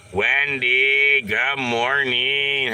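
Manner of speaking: high, loud slow call of good morning; calling greeting. Real, not acted. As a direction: stretch out the greeting to her.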